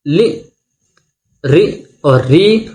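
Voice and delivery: लि, री और री spelled out slowly, the second री held long; li ri ree. Shown as a demonstration. Teacher sounding out how the vowels came to be pronounced. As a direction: say each sound apart, slowly. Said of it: "इसमें किस तरह से होने चले".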